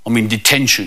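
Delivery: a hint of a sorry schoolboy; lightly voiced glum kid. Kid in detention answers a visitor, lightly voiced glum.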